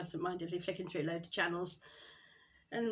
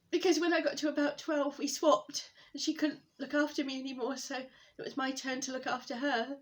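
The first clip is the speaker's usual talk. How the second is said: raised voice gradually settling after crying; tearful explaining; 4 semitones higher, 3 dB louder than usual. Acted. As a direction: pull yourself back together as you explain. Explains the guilt, recovering from crying.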